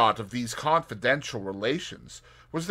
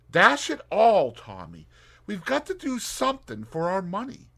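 Tuppence voice; 10 semitones higher, 5 dB louder than usual. Acted. Tuppence urging Tommy to act.

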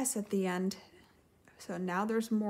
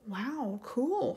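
exclaiming; 2 semitones higher than usual. Acted. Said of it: "Flounder exclaimed".

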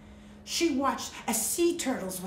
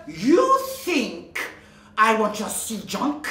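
louder, scornful witch roar; 5 dB louder than usual. Acted. Sea witch scorning Melody's treasures, roaring. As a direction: roar the insult at her. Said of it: "the witch roared".

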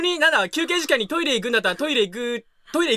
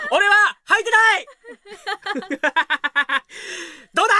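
cheeky boast; 6 semitones higher than usual. Pretend. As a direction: announce it proudly to shock.

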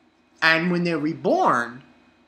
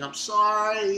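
mock-tearful, pitched-up wail; half-hearted imitation of weeping; imitated crying apology; 4 semitones higher, slower than usual. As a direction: whine it as a pretend sob. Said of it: "she's crying, and she's saying".

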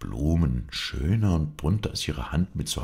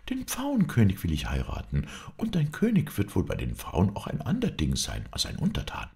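higher-pitched, insistent princess; slightly annoyed; 5 semitones higher than usual. Acted. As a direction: insist with a touch of irritation. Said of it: "antwortete die Prinzessin etwas ärgerlich". (leicht ärgerliche Prinzessin)

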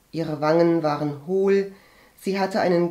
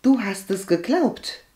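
mildly raised, affronted question; indignant; 4 semitones higher than usual. A narrator's reading. Agathe challenges cousin who believed rumour, indignant. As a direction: ask it with a touch of outrage. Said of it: "sagte Agathe empört".

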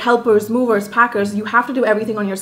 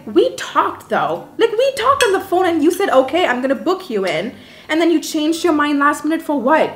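retold indignation; 6 semitones higher than usual. Guest confronting host over a cancelled booking, indignant protest. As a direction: argue the point, pitch jumping up in mild outrage. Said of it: "it got me really mad".

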